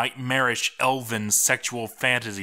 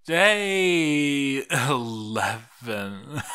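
slow, broken laugh through the words; 3 semitones higher, much slower than usual. Acted. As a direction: laugh it out, near hysterical. Journal writer breaking down.

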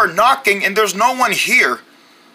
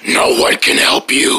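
menacing whisper. Acted. Menacing monster reply.

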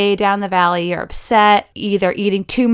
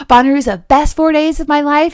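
higher, louder gushing fan; mock festival fan; 5 semitones higher, 5 dB louder, faster than usual. Imitating a Bonnaroo fan, higher and louder. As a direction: gush about the festival. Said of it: "I hear this a lot with Bonnaroo".

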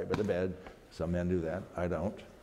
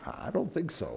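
uneasy laugh; 6 semitones higher than usual. Retold or imitated. Husband answers wife.

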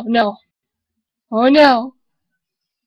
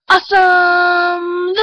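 excited; 4 semitones higher, slower than usual. Acted. Excited shout at ball.

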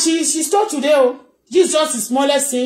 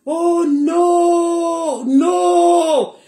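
mock cry; 5 semitones higher, much slower than usual. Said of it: "you can hear the voice".

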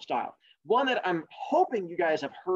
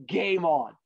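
dismissive rabbit. Acted. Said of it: "And the rabbit's like".

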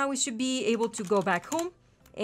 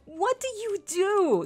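very high squeaky what; high astonished squeak at the level up; shocked squeal; 9 semitones higher, 3 dB louder, slower than usual. Real, not acted. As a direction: yelp it in sudden surprise. Surprise at dog leveling up.

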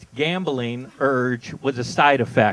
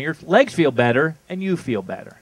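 ad tagline. Shown as a demonstration. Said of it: "This is their tagline".

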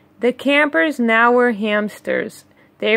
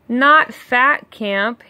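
mild stammer; slower than usual. Acted. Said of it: "Harry stammered".

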